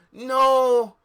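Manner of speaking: loud high shriek of no; sudden shrieked no; scream. Acted. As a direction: scream it out in horror. Reading a scream in the story.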